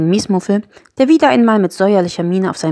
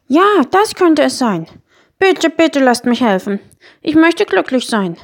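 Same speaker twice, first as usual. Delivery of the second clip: high, slow creature voice; little Miesmuffel, pleading; 8 semitones higher, 4 dB louder than usual. Acted. Miesmuffel begs the children to let him help, pleading. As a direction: plead earnestly, stretching the words.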